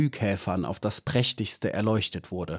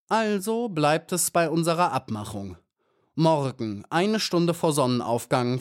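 hornet queen; 3 semitones higher than usual. Acted. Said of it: "hörte Maya die Hornissenkönigin sagen".

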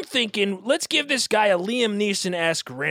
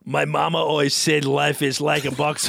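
muddled, put-on Austrian accent; deliberate, wandering Arnold-style accent; botched Arnold accent. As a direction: attempt an Arnold accent that goes astray. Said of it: "I don't know what that accent is now".

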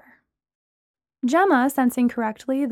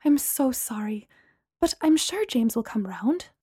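consoling; 3 dB quieter than usual. Acted. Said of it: "Gemma said consolingly".

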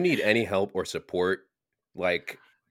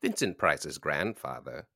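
a hint of Morgan Freeman; 4 semitones lower, 3 dB quieter than usual. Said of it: "I'm turning into Morgan Freeman".

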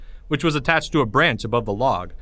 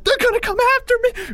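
fast, very high panicked wail; tearful squeal; 4 dB louder, faster than usual. Acted. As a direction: squeal it in terror. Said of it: "Porge squealed, tears streaming down his face".

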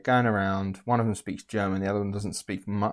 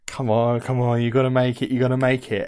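tense urging; 6 dB louder than usual. Retold or imitated. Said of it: "the whole time you're just like".

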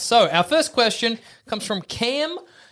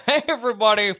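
talking through a mouthful of jelly beans; words muffled by candy; mouth full. Real, not acted. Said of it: "My mouth is full of Jelly Bellies".

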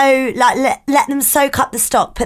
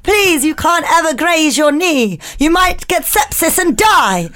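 slightly higher, fretting mother voice; fussing helicopter mum; 3 semitones higher than usual. Pretend. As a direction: fret over the child like an overprotective mum. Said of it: "landing in the helicopter parent".

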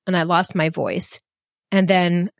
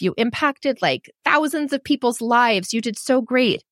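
higher, bright-eyed cheering on of her past self; encouraging pep talk; 3 semitones higher than usual. Retold or imitated. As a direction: cheer yourself on, proud and reassuring.

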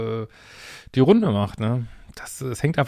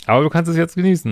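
excited; 5 semitones higher, 5 dB louder, faster than usual. Real, not acted. Excited aside to letter writer.

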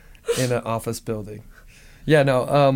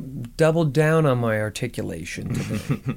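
mock defensive. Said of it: "you'd be like".

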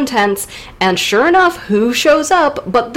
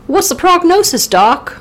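mock patient; 9 semitones higher than usual. Patient asks doctor, acted scene.

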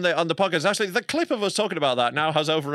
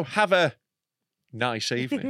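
alluring voice; 3 semitones lower than usual. Retold or imitated. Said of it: "That is too sexy".

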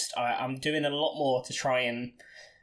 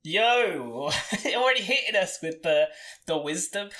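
high, louder laughing tease; playful teasing; 4 semitones higher, 4 dB louder than usual. Real, not acted. Teasing his friend for dropping wisdom, laughing. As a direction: rib him for the wisdom.

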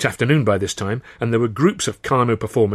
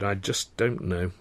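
muttering; 6 dB quieter, slower than usual. Acted. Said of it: "I muttered".

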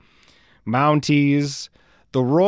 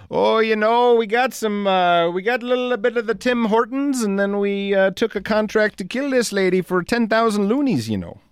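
high-pitched, singsong mock Canadian accent; badly faked Canadian, pitched way up; chatty cartoon Canadian accent, voice held high; 10 semitones higher than usual. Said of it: "I don't have a good Canadian accent".

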